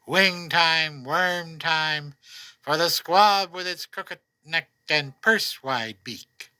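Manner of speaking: unhurried lyrical reading, lines set apart by pauses; poem recital. Acted. Poet reading his June poem to listeners, gentle recital.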